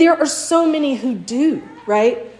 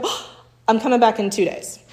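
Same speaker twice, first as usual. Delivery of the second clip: cheerful promise. Retold or imitated. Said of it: "And I go".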